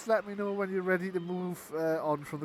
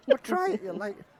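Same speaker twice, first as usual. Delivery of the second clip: goblin carny voice; 6 semitones higher, 8 dB louder than usual. Acted. Goblin urging after cackle.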